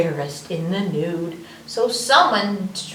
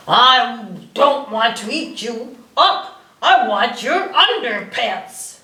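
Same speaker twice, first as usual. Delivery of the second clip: louder, slower dinosaur growl; T-Rex roar voice; 4 dB louder, slower than usual. Acted. Reading to kids, T-Rex roars for the undies with a growl. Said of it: "that sounded more like a dinosaur".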